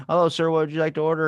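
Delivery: hammed-up drive-thru greeting; barista voice. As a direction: put on a chirpy server voice. Barista voiced in retold story.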